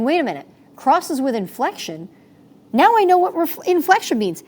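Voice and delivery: rising to a high, loud eureka; sudden realization. Retold or imitated. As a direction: play a student who suddenly gets it. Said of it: "having a light bulb breaking moment going".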